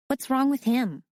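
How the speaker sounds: put-on an older sister unimpressed; lightly voiced sassy girl; skeptical ten-year-old girl. A narrator's reading.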